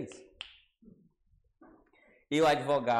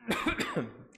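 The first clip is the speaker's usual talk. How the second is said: choking cough. Real, not acted. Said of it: "me engasguei aqui".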